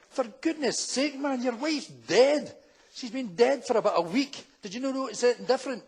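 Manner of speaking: acted reproach to a clueless husband; incredulous telling-off, stretching the words; exasperated. Surgeon scolds the oblivious husband.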